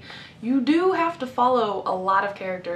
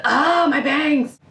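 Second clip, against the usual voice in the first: louder, drawn-out annoyed cry; startled yelp; 5 semitones higher, 7 dB louder, slower than usual. Real, not acted. Hair falling in her face mid-rant, startled yelp.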